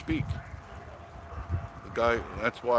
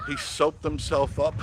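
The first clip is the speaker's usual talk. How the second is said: amused storytelling; 5 semitones higher, slower than usual. Real, not acted. Relishing the shower story's punchline.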